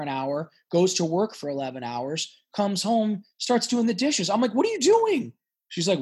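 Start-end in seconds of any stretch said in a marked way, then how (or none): 4.5-5.3 very high, shocked squeak of disbelief; incredulous question. Retold or imitated. Boyfriend to girlfriend washing dishes after work, high shocked squeak. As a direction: squeal it like you just caught her doing the dishes. Retelling his reaction to girlfriend's chores.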